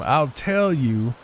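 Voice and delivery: each word drawn out slowly after stumbling; slow right down and get it out cleanly; slow, careful retry. Real, not acted. Streamer retrying his stumbled line, slow and deliberate. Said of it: "I'll say it one more time".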